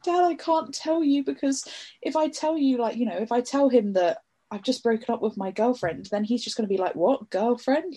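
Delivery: put-on pleading young self. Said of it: "And I was like".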